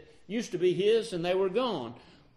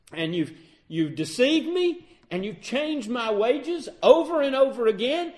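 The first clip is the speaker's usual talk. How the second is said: louder, higher aggrieved protest; angry Jacob; 4 semitones higher, 4 dB louder than usual. Retold or imitated. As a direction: let the grievances pile up. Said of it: "Jacob is then angry and says".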